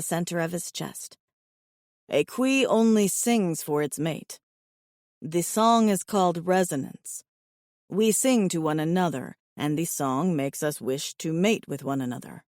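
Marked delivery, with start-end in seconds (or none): 2.1-12.4 low, even alien voice; steady, low and earnest; calm alien suitor. Acted. Alien explains song.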